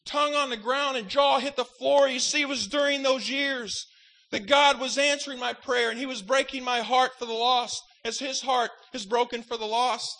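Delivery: impassioned sermon, punching key words; fervent preaching. Acted. Preaches on his broken heart.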